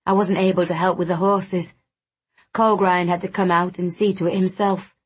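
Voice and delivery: a touch of a stoic man, reluctant to take help; slightly monotone character voice, mildly reproachful; lightly voiced proud, wounded friend. Wounded friend refusing extra help, lightly voiced and stoic.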